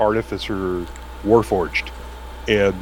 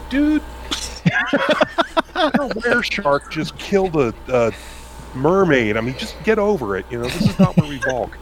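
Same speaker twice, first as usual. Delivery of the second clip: put-on pirate accent; 8 semitones higher than usual. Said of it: "four pirate accents".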